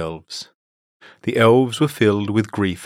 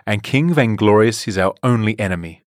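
louder angry defiance; 3 semitones higher, 5 dB louder than usual. Acted. Daisy defying Silk Tongue, loud and angry. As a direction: throw it back at her. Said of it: "Daisy said angrily".

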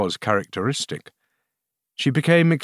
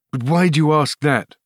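raised, puzzled question; astonished; 6 semitones higher, 4 dB louder than usual. A narrator's reading. Astonished king questioning the queen, surprised. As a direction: ask it taken aback, pitch up. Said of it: "replied the astonished king".

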